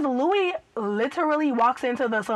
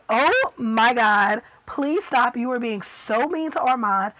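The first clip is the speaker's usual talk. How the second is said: loud pleading; 5 dB louder than usual. Pretend. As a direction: cry out at the screen for them to quit. Pleading with TV characters to stop.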